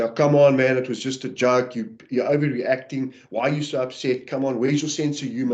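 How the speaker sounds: mock irritated brush-off, rolling the eyes. Shown as a demonstration. Husband snapping back at his wife over a joke, mock harsh and exasperated. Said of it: "normally I wouldn't say it in that calm voice".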